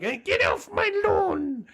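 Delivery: put-on high, slow cranky old man yell; sputtering foiled villain. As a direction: shake your fist and holler. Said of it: "just shakes his fist like".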